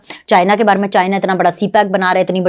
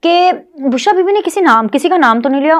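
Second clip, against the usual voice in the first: higher, mocking take on the lawyer's excuse; mock voice of a lawyer defending his client; 6 semitones higher than usual. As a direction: parrot the lame argument in a sneering voice. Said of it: "तो उनको बोल रहे थे".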